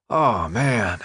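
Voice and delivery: mumbling through a mouthful; mouth full. Acted. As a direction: talk round a bite of food. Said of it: "mumbled through a mouthful".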